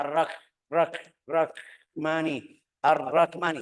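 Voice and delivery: "Ar-Rahmani" broken by a hard k, "Rak-mani"; mispronounced as k. Shown as a demonstration. Teacher repeating the mistake, ha hardened to k. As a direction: cut the h of "Ar-Rahmani" off as a k.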